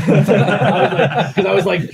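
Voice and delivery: laughing through the words, slow; laughing at his own story. Real, not acted. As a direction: talk while cracking up. Laughing while telling story.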